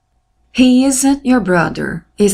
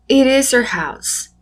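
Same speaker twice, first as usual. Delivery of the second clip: slow model English; 4 semitones higher, slower than usual. Shown as a demonstration. Teacher modelling English example.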